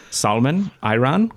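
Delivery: put-on English words with a Dutch accent; imitated Dutch accent. Host repeating learned words to himself in the shower, Dutch accent. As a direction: mimic a Dutch speaker's English. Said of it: "watching Dutch people speaking in English".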